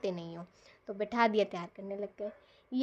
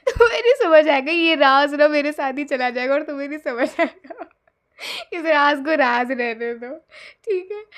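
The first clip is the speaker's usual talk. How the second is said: laughing through the words, a little louder; words tumbling out between laughs; 7 dB louder than usual. Real, not acted. Reader laughing while retelling the husband's joke, laughing.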